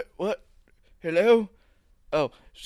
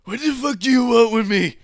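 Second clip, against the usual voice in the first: calling out; 5 dB louder than usual. Acted. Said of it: "Blake Man calls out".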